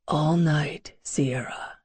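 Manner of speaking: breathy intimate whisper close to the ear; soft seductive whisper. Acted. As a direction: murmur it right against her skin. Lover's breath on her skin.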